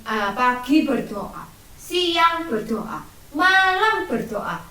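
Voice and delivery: pagi, siang, malam said slowly, climbing in pitch; slow emphatic listing. Shown as a demonstration. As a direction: count them out slowly, building up. Teacher drills prayer times.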